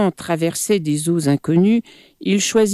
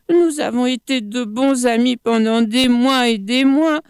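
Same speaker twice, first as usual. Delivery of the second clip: pleading crocodile; 6 semitones higher than usual. Acted.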